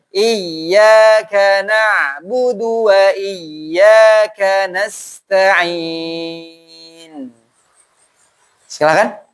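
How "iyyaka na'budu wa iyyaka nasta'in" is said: slow, chanted tajwid recitation; Quran recitation. Shown as a demonstration. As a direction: recite the verse slowly, melodically. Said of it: "sekali lagi ya".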